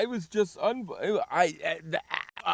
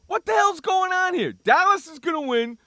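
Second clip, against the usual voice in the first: higher, louder exasperated rant; re-enacted TV rant, pitched up and loud; retold yelling at TV; 9 semitones higher, 4 dB louder than usual. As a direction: rant at the TV like a frustrated fan. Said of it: "I'm saying".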